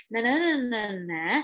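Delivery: nonsense syllables tracing one lilt; mock the samey influencer tune; repetitive intonation. Coach parodying influencer speech, repeated sing-song syllables. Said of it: "Ngomongnya gitu-gitu aja nadanya".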